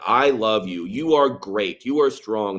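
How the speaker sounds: slow, earnest affirmations; a slow, sincere affirmation; sincere direct words. Shown as a demonstration. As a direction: say each short line slowly and mean it. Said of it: "powerful to just say".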